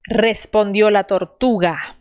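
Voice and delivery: "Respondió" with a short trilled R; rolled R. Shown as a demonstration. Teacher models the trilled R. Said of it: "R vibrante".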